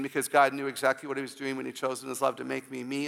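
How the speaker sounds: normal talking voice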